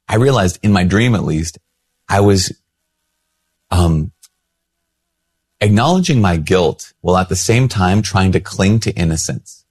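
ordinary delivery

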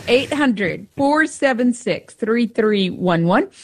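phone number read out nice and slow; slow and clear. Real, not acted. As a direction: say the number slowly, digit by digit. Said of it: "I will say it nice and slow".

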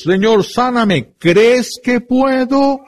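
high, slow asking voice; quoted plea and question. Acted. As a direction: lift it up and draw it out as Jesus asks. Leproso y Jesús citados. (pregunta alta y lenta)

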